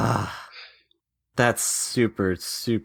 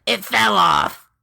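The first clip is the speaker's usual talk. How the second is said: high, drawn-out mock shout; blurted excuse; 6 semitones higher, slower than usual. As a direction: call it out slowly and high in feigned innocence. Player blurts excuse to enemies.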